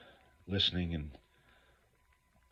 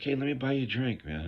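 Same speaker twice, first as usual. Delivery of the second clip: put-on tipsy old man; 8 semitones higher than usual. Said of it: "he's like".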